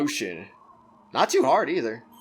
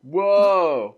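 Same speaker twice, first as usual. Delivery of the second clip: loud, high astonished "Whoa!"; surprised whoa; 4 semitones higher, 9 dB louder than usual. Real, not acted. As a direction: blurt it out in shock. Surprised reaction to new voice.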